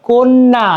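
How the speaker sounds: কন্যা as "kon-na", with an o; o-vowel pronunciation. Shown as a demonstration. Teacher showing an o-kar is pronounced, কন্যা as "kon-na". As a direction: give কন্যা a round o and doubled n. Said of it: "ওকার উচ্চারণ হচ্ছে".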